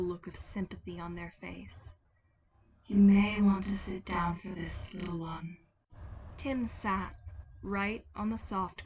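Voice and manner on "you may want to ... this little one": a kind figure breaking bad news; tender otherworldly Death; Death's gentle voice. Death prepares Tim for bad news.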